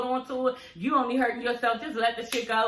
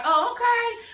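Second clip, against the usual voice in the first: high-pitched mock-surprised "oh, okay"; taken aback; 12 semitones higher, slower than usual. Recapper acting out her reaction to Duffy speaking up, taken aback. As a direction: react with a big, high, drawn-up "oh".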